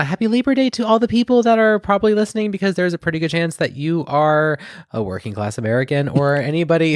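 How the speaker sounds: high bright public-service voice; cheery announcer. Acted. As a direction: chirp it like a holiday PSA. High chipper announcement to listeners.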